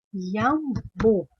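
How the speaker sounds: "iambu" drawn out in slow, separate syllables; sílaba por sílaba. Shown as a demonstration. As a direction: sound out "iambu" slowly, pausing between syllables. Teacher sounds out unfamiliar bird name. ("iambu" bem devagar, em pedaços)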